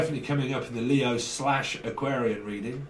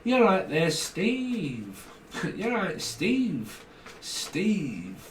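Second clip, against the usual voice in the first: put-on lightly done Scouse accent, higher; 5 semitones higher, much slower than usual. Tarot reader greeting Steve, mild Scouse accent. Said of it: "from up Scouser".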